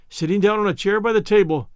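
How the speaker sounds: usual speaking voice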